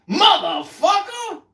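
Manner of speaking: drawn-out, high, loud curse; hammed-up angry old man; slow furious shout. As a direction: spit the curse out as he storms off. Old man cursing as he leaves.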